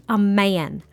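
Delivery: a touch of Southern twang; slightly southern accent. Real, not acted. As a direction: let a light Southern drawl slip in, drawn out. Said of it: "I go a little southern when I say that".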